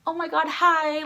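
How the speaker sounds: high, loud fangirl hello; gushing greeting. Acted. Fan imagining a happy hello to idols, excited gush. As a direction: squeal the hello a little.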